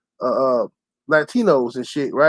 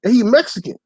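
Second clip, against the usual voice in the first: high-pitched fed-up complaint; retold exasperation; 6 semitones higher than usual. New guy ranting to himself about his racist boss: high exasperated complaint. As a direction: rant it up high, indignant. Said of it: "I'm like".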